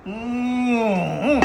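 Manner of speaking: drawn-out savoring "mm-hmm"; appreciative mm-hmm. Real, not acted. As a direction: hum with relish at the finished dish. Showing the finished stew.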